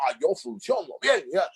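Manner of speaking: high-pitched mock indignation; acted offended retort, pitched right up; annoyed protest. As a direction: imitate a piqued friend defending himself. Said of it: "él sí ya se estaba molestando".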